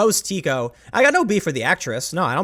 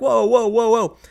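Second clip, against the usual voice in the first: mock alarmed objection; 5 semitones higher, 3 dB louder than usual. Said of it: "people are like".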